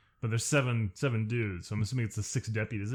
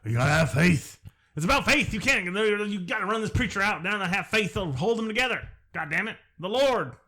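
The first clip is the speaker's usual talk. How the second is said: mock miners; 3 semitones higher than usual. Parodying movie characters' lines.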